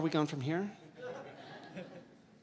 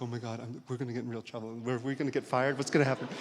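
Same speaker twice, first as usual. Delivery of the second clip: scared; faster than usual. Retold or imitated. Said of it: "like, very scared".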